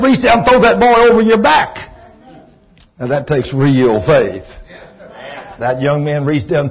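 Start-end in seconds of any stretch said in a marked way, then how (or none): 0.0-1.8 high, loud order; retold command. Preacher telling the healed father to lift his son, loudly. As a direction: push him to act on faith.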